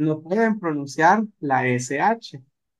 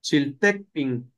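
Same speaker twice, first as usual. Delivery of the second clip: chiltepin spelled out slowly, syllable by syllable; slow, careful word; 3 semitones lower, much slower than usual. Shown as a demonstration. Teacher giving the Nahuatl word chiltepin slowly. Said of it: "chil es el chile".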